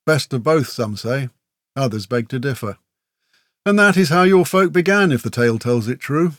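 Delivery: put-on warrior recounting an old legend; measured storyteller, lifting each new phrase; tale-telling. A narrator's reading. Murrock telling Grell how orcs began, storyteller's recital.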